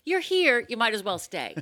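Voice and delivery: announcer punch on the first words; ad tagline read. Shown as a demonstration. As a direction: sell it like a slogan. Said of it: "what the tagline should be".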